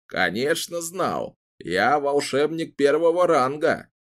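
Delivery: put-on slow, offended old man; proud huff of an old wizard; indignant old wizard. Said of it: "Её вопрос возмутил Зеда".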